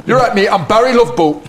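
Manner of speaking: chummy, high-pitched character voice; put-on high Geordie-style greeting; Barry the bosun. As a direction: introduce yourself as a matey ship's bosun. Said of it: "this character's slightly different from the other ones".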